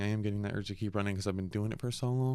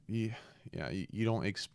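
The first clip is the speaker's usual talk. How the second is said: sniffling; 3 dB quieter than usual. Real, not acted. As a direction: sniffly voice with a stuffy nose. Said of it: "Sorry about the sniffling and stuff".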